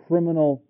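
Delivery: "criminal" said with deliberate emphasis; pointed weight on "criminal"; stress on criminal. Real, not acted. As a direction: lean on the word "criminal". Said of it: "with emphasis on the word criminal".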